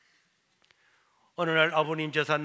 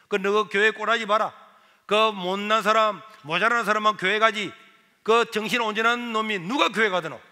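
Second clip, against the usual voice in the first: scornful mother; 7 dB louder than usual. Retold or imitated.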